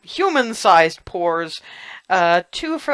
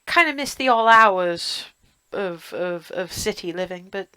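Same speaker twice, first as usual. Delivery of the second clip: lightly voiced chatty old innkeeper; a hint of a gruff barkeep; 2 semitones higher than usual. Innkeeper chats with the guests.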